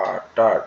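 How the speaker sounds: uttered stretched into aa-tar; teacher sounding out uttered; drawn-out pronunciation. Shown as a demonstration. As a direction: say uttered in two parts with a long first vowel. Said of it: "আমি বলছি না".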